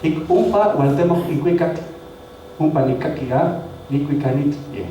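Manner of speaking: slow recital of the song verse; slow measured Nahuatl verse; Nahuatl song recitation. Shown as a demonstration. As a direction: read the song line slowly and carefully. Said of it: "Por ejemplo".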